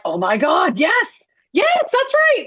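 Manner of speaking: mock thrilled "yes, that's right"; excited agreement. Creators agreeing with her insight, in a high, gushing voice.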